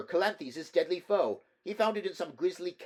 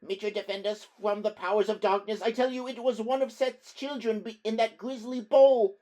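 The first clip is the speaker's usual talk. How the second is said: much higher, louder, cracking hysteria; hysterical shrill; 13 semitones higher, 10 dB louder than usual. Acted. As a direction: shriek in panic, voice breaking. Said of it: "voice shrilled and cracked with hysterical excitement".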